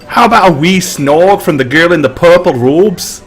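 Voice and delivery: lightly voiced Scottish drinker calling the barkeep; boisterous Scottish patron. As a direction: call for the bottle like a cocky tavern regular. GM plays patron proposing wager.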